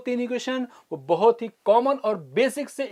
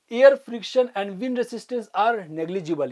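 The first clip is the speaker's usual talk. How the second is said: words spaced out very slowly; slow dictation; much slower than usual. Shown as a demonstration. Teacher stating assumption for notes, slow dictation. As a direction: read the assumption for them to copy.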